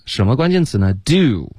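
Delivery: ordinary delivery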